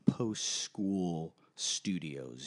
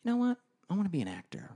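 a chef's sudden decision; 12 semitones higher, much faster than usual. Retold or imitated. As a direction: play a chef struck by a grand idea. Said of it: "one day go".

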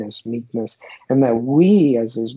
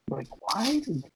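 upset whisper; 8 semitones higher, 9 dB quieter than usual. Real, not acted. Upset reading about the pioneers.

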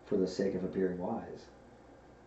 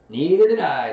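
loud, raised bear voice; puzzled Pooh; 7 semitones higher, 14 dB louder than usual. A narrator's reading. Bear agrees with Piglet, loud and puzzled. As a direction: chime in loudly with agreement. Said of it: "said Pooh".

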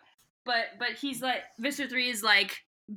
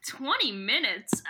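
slow disbelief; slower than usual. Real, not acted. Slow incredulous echo.

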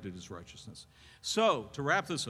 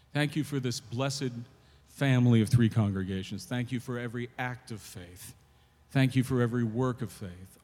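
closing prayer; 4 dB louder than usual. Real, not acted. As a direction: lead the church in sincere thanks.

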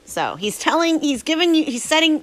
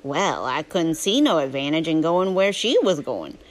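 Huck's southern drawl, telling his story; southern storytelling voice; 3 semitones lower than usual. Acted. Reading Huckleberry Finn aloud to a drowsy listener, southern narration. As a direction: read it as a folksy southern tale.

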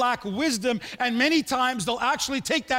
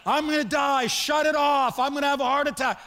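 imitated panicked screaming; 3 semitones higher than usual. Patient on treadmill begging them to stop it, mock panic. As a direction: retell a panicking man's cries, half-screamed. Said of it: "he's panicking. He's screaming".

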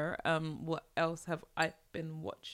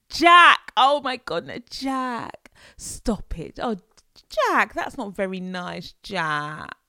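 high, louder sing-song calling of Jack; mock posh mum calling; 6 semitones higher, 12 dB louder, slower than usual. Imitating a middle class mum scolding Jack, loud high calling. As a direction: call out to a misbehaving child like a posh mum.

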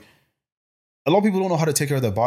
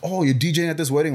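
mock-curious mom, pitched up; imitating keen interest; 5 semitones higher than usual. Mom asking son about his DJ gig, mock-interested. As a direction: lightly act out an interested parent's question. Mother's interest in brother's gigs, retold.

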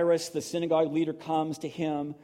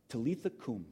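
tender; 4 semitones lower, 6 dB quieter than usual. Retold or imitated. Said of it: "Jesus takes her by the hand and says to her".

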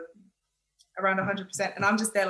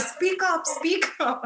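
tag; 6 semitones higher, slower than usual. Retold or imitated. Imitating classmates who can't hear her.

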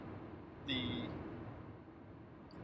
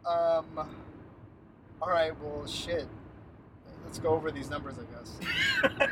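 imitating a deflated boss giving up; retold defeat, sighing it away in short pieces; 3 dB quieter than usual. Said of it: "Like, just defeated".

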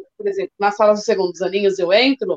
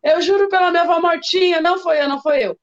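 imitating a child swearing; 5 semitones higher than usual. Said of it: "ela começa a chorar".

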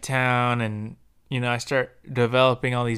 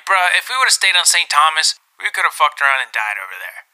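exasperated retort; 4 semitones higher, 8 dB louder, faster than usual. Retold or imitated. Retort in a fight with girlfriend.

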